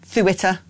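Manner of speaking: Ceuta said THOO-it-uh; Ceuta lisped at the front, weak final uh; lisped pronunciation. Shown as a demonstration. Trying rival pronunciations in turn.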